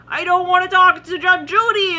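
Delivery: high, loud comic wail of dread; mock frightened protest. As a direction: play a scared person refusing, loudly. Voicing scared people dreading Judge Judy.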